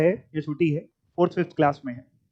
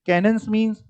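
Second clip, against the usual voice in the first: deliberate repetition; 3 semitones lower than usual. Shown as a demonstration. Teacher drilling a definition into the class, deliberately repetitive. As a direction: drill the phrase like a stuck CD, same tune each time. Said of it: "मेरी सीढ़ी अटक नहीं गई, मैं जानबूझ के".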